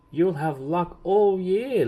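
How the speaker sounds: high, loud and slow, laughing it out. A narrator's reading. Little Miss Lucky teasing Little Miss Shy, laughing. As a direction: tease a friend with a laugh in the voice. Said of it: "laughed Little Miss Lucky".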